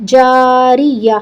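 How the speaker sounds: "جاریہ" slow, closing on a breathed h; waqf with ha. Shown as a demonstration. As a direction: stop on "جاریہ" with the round ta turned into an audible h. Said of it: "اس کا ہا بن جائے گا". ("جاریہ" کے آخر میں ہا پر وقف)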